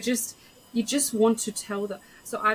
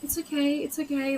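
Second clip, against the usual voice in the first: consoling; 7 semitones higher than usual. Retold or imitated. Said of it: "I was consoling her".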